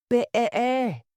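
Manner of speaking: "better" bleated high like a sheep's baa. Acted. Queen's last "better" turning into a sheep's high bleat. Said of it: "very like the sound that a sheep makes".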